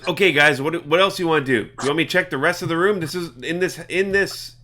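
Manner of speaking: Legolas. Acted. Game master as an eager party member, lightly acted. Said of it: "Legolas says".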